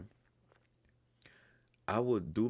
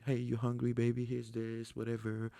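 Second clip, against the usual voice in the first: higher, sweet imitation of his girlfriend offering food; mock girlfriend voice; 6 semitones higher than usual. Girlfriend offering him food, higher sweet imitation. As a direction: play the doting girlfriend, pitched up.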